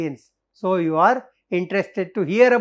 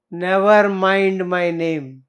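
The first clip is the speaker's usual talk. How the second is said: slow deliberate; 2 semitones lower, slower than usual. Acted. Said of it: "You see the answer".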